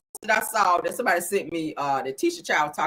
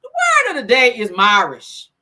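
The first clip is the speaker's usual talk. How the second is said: announcer voice; 5 semitones higher, 11 dB louder, slower than usual. Pretend. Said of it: "let me get back into character".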